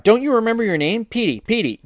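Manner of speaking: high-pitched coaxing call; calling to a dog. A narrator's reading. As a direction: plead with the dog, pitch lifted.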